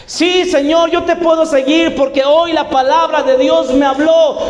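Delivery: más agudo y entusiasta; Pedro ansioso. Acted. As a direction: promete con fervor, alzando la voz. Pedro promete seguir a Cristo. (Pedro prometiendo con entusiasmo, agudo)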